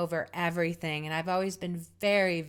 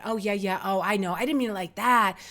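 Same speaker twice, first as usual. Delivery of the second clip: mild supportive reassurance; 4 dB louder than usual. Retold or imitated. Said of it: "very supportive".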